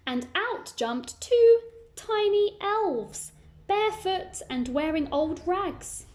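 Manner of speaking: high and slow, building the surprise; dramatic reveal. Acted. Narrator revealing the elves to young listeners, slow and wondrous. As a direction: unveil the elves with wonder.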